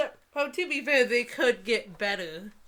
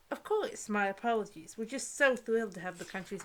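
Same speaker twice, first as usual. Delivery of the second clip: fawning mother. Acted. Reading a fawning mother's dialogue.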